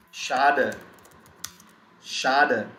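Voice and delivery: "Schade" said as SHAH-duh; "Schade" as a separate, falling demonstration word; German sch pronunciation. Shown as a demonstration. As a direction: model "Schade" with sh at the start. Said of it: "we pronounce it as".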